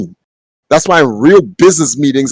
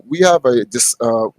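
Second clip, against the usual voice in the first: mock corporate speak; 4 semitones lower, 5 dB quieter than usual. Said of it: "That's not how they talk".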